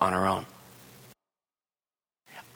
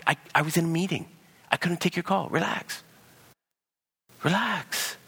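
calming partner; 9 semitones higher than usual. Acted. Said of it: "the other person that will say".

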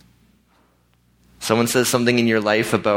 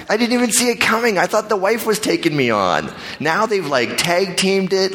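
amused disbelief; 9 semitones higher than usual. Real, not acted. Laughing disbelief at the ambush.

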